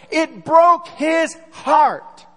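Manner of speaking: broke his heart drawn out slowly; preacher stretching each word of broke his heart; slow emphasis. Real, not acted. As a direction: lean hard and slow on broke. Slow emphatic sermon point.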